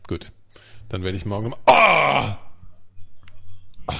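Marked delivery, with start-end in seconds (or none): 1.7-3.9 startled shout. Real, not acted. Sudden cry during the match.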